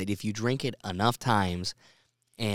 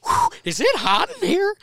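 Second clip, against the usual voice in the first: high, breathy mock fluster, much higher; 5 dB louder than usual. Podcast host fakes overheating while tipsy on air. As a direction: play the flustered hot guest. Joking about shedding layers.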